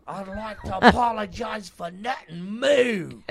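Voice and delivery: high, loud Irish fighter voice; defiant Irish boast ending in a moo; Conor McGregor. Acted. Doing celebrity cows, loud Irish fighter impression. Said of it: "a Conor McGregor cow".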